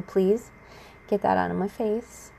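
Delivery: even, restrained polite plea; calm, controlled request. Retold or imitated. Ex keeps putting stuff in speaker's face, calm restrained request. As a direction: ask politely, keeping the temper held in. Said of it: "I'm calm, and I'm relaxed as much as possible".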